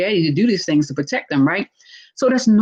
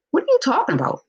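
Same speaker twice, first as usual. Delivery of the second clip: high, baffled question; disbelieving what-are-you-talking-about; confused reply; 9 semitones higher, faster than usual. Retold or imitated. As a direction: sound thrown by a silly accusation. Partner confused by false accusation.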